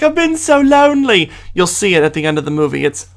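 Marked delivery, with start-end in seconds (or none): 0.0-1.3 high-pitched, put-on wife's wail; comic wife. Reviewer mimicking the wife who comes up to Cogsworth, high comic voice. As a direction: imitate a needy wife, pitch lifted high. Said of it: "she's like".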